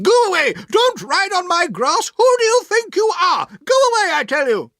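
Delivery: put-on high, loud furious old-lady yell; angry shouting. A narrator's reading. Aunt shouts at the Murdstones riding on her grass, furious. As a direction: drive them off her lawn. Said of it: "angrily at them and shouting".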